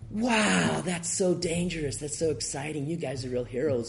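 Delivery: mock excited TV reporter, pitched high; gushing American reporter. Lecturer mocking CNN's American overstatement, pitched high and gushing. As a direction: ham up a breathless newsman. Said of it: "and C N N's going".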